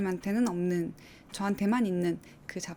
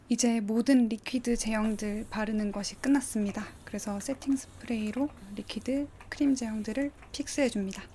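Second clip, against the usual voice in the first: whispering. Acted. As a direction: whisper it like an ASMR aside. Whispered voiceover aside.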